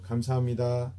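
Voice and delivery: 감사합니다 with the final 다 going down; falling ending. Shown as a demonstration. Instructor showing the falling end of thank you. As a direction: let the end of 감사합니다 drop. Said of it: "last sounds a little bit going down".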